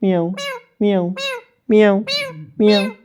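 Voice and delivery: short, lightly voiced meows; cat imitation. Shown as a demonstration. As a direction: prompt with little repeated meows. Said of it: "बिल्ली कैसे बोलती है?". (बिल्ली की हल्की नकल, म्याऊं)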